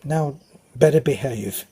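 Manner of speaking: imitating a peevish mum; mildly cross mother's telling-off, retold; peevish scolding. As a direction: play a touch of motherly peevishness. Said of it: "she'd give me a peevish shove and say".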